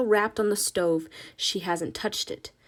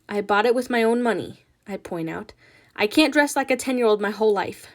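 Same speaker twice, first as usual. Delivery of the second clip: louder, defiant reply; defensive daughter; 5 dB louder than usual. Acted. Nina defending her shirt to Ma, louder. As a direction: push back at her mother.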